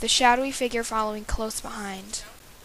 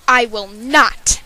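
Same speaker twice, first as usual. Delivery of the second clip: retort; 7 dB louder, much slower than usual. Acted. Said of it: "retorted the villain".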